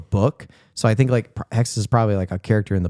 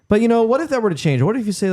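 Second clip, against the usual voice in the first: retold warning; 13 semitones higher, much faster than usual. Retold scientist's line from TV show.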